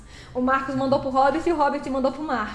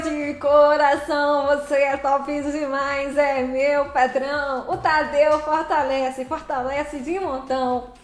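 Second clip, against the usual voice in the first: heartfelt thanks; 4 dB louder, slower than usual. Real, not acted. Thanking a donor on stream.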